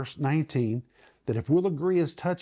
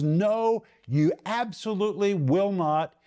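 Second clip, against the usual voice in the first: "no" and "absolutely" punched with insistence; emphatic no; 3 semitones higher than usual. Shown as a demonstration. Teacher explaining the Greek negative, emphatic. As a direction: lean firmly on "no" and "absolutely". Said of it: "is emphatically no".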